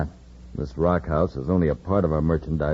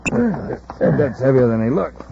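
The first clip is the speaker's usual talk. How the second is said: slow, louder effortful line; straining; 8 semitones higher, 5 dB louder, slower than usual. Acted. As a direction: grunt it out under the weight. Lifting the cadet.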